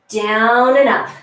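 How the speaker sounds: slow, drawn-out coaching count; slow and steady. Shown as a demonstration. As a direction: stretch each word out slowly. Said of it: "Nice and slowly".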